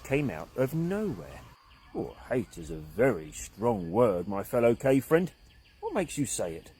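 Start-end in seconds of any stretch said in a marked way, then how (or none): 1.9-6.7 deep gentle voice. Acted. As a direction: soften it, calm and wise. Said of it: "a deep, gentle voice".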